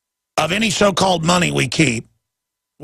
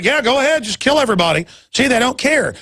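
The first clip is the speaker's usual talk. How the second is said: mock establishment voice; 8 semitones higher than usual. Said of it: "the establishment's like".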